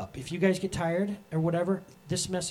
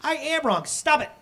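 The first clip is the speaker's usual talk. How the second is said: much higher, laughing, hammed-up sinner owning up; sheepish confession; 10 semitones higher, 3 dB louder than usual. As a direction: play the embarrassed son laughing through his confession, then pleading. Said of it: "you're like".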